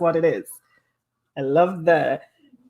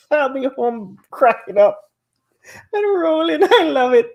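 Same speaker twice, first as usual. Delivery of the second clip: laughing; 7 semitones higher, 5 dB louder than usual. Real, not acted. Laughing over Coco's antics.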